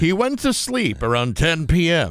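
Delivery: slow, stretched TV narrator voice with swooping pitch. Retelling thoughts after watching the show, Keith Morrison voice. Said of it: "with Keith Morrison's voice in my head".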